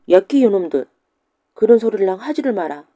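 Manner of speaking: loud mock scolding of naughty boys. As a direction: bark at the cheeky pupils. Teacher scolds the pupils. (훈장이 학동들을 크게 꾸짖듯)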